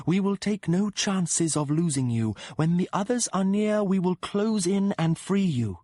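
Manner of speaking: voce alta e distante, promessa lenta e suadente; la cavalcatrice del gatto rassicura il suo amato, lenta e possessiva; voce della donna gatto. Acted. Cat-rider woman speaks.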